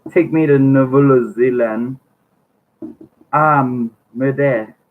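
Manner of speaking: hammed-up French accent, drawn out slowly; mock French accent. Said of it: "I tried a husky French accent".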